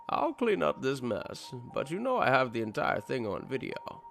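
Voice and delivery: taunting killer. A narrator's reading. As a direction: taunt him like a sinister killer. The killer threatening.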